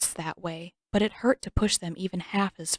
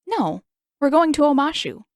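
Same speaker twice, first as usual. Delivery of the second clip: higher, louder and bright-eyed; cheerful announcement; 8 semitones higher, 7 dB louder than usual. Acted. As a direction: announce it like a treat. Aang cheerfully announces destination.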